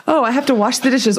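mock husband saying "wash" with an R, as "warsh"; teasing imitation. Husband teasing her accent, mock "warsh". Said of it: "Carl teases me about that. He's like".

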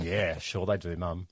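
mild eye-roll at Mum; eye-rolling sarcasm. Retold or imitated. Teen teasing Mum over dogs, dry sarcasm. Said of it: "rolling my eyes".

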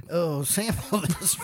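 laughter bursts out; bursting into laughter. Real, not acted. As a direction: lose it mid-sentence. Laughing fit.

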